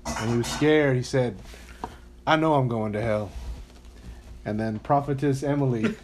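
put-on lightly preached retelling of the baby boy story; like a preacher. Shown as a demonstration. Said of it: "Let me say it like a preacher".

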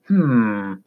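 put-on old sailor's drawn-out grunt; grunted hmm. A narrator's reading. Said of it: "the sailor grunted".

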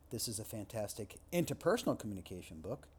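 interpersonal lifted and rising; stress on INTERPERSONAL. Shown as a demonstration. Lecturer demoing shifted emphasis, interpersonal stressed. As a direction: lean into interpersonal. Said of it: "just by shifting the emphasis".

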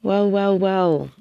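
purring, playful greeting; breathy vintage purr. Acted. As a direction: coo it like an old film star.

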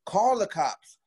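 very high, strained mock yelling; retold scream. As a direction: re-enact a furious scream without full volume. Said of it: "I remember screaming".

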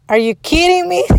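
high, indignant mock outburst; retold angry disbelief. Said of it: "I was so angry".

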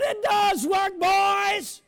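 loud, high joyful reply; triumphant shout. Retold or imitated. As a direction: call it back in triumph.

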